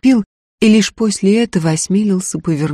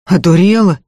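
startled; 5 dB louder than usual. Acted. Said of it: "перепугался он".

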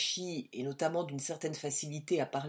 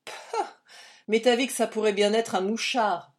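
loud, higher accusing cry; scoffing then a loud accusing cry; outburst; 4 semitones higher, 7 dB louder than usual. A narrator's reading. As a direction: blurt the accusation out loudly. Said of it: "s'écria".

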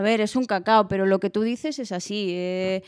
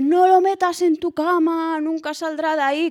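mocking advice givers; 7 semitones higher, 5 dB louder than usual. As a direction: parody the know-it-all advisers. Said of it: "con todas las voces".

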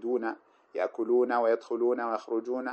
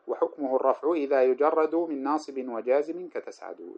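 slow chanted poem line; verse recitation; 3 semitones higher than usual. Acted. Teacher reciting the grammar poem to students, slow chant.

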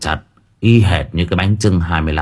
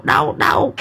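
whispered pain. Acted. Hải pain fading to whisper.

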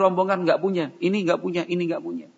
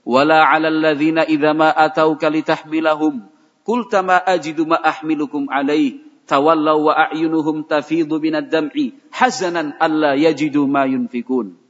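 Quran recitation; 3 dB louder than usual. Acted. Preacher recites a Quran verse to the congregation, melodic chant. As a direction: chant the Arabic verse in a steady melodic line.

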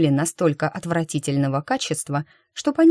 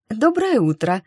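sweet greeting; 6 semitones higher than usual. Acted. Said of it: "состроив самую милую улыбку".

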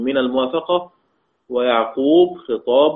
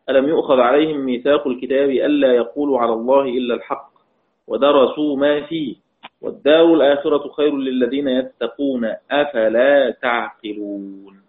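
Quran recitation. Shown as a demonstration. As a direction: recite the verse in tajweed style. Teacher recites Quran verse.

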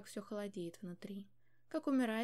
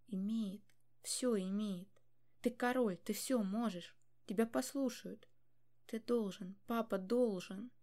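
insistent plea; 4 dB louder, slower than usual. Acted. Daughter insists.

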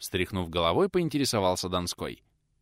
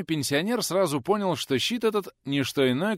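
ordinary delivery

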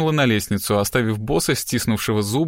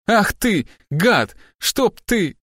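high, broken-up cursing; spiteful sobbing curse; 9 semitones higher, much slower than usual. A narrator's reading. Sobbing captive curses the detective, spiteful. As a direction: spit curses in tearful spite. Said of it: "Судорожный всхлип, злобный взгляд".

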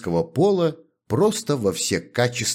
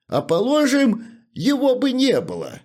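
higher, louder call after someone leaving; shouted after him; 4 dB louder than usual. Acted. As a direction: shout it at his back. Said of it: "крикнул ему вслед дворецкий".

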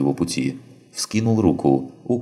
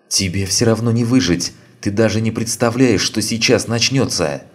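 high, loud defiant yell; furious sobbing shout; 6 semitones higher, 4 dB louder than usual. Acted. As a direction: scream in helpless rage. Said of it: "Зарыдав от боли ... Лина крикнула". (яростный крик сквозь рыдания)

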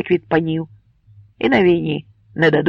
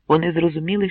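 plain reading voice

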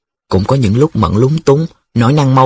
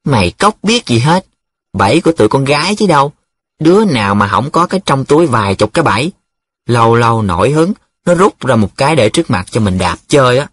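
higher-pitched know-it-all scorn; scornful; 3 semitones higher than usual. Acted. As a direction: talk down to a naive friend. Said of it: "giọng khi dễ". (giọng khi dễ)

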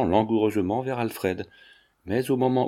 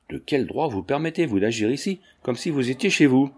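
curt tone; 2 semitones higher than usual. Acted. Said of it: "d'un ton sec".

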